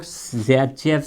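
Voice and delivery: सेजेफ with a buzzed z opening, "za-jef"; दूसरा उच्चारण. Shown as a demonstration. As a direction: say सेजेफ slowly as "zaa-jef". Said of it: "भी बोलते हैं". (सेजेफ को धीरे "ज़ैजेफ" बोलें)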